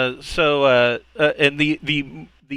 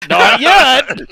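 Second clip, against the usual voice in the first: joking shout; 9 semitones higher, 8 dB louder than usual. Pretend. Joke shouted amid laughter.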